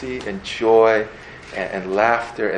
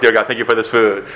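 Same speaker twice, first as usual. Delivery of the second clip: sneaky fork prayer; faster than usual. Pretend. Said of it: "You drop your fork".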